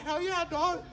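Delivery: high, laughing cheer; gleeful hell yeah. Retold or imitated. Answering the passenger about four twenty, laughing and high. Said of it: "I was like".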